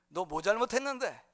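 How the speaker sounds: lightly played Gyeongsang question; Gyeongsang dialect. Preacher has Pilate question Jesus, in light Gyeongsang dialect. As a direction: ask it with Gyeongsang intonation. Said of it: "경상도 버전으로 한번 이걸".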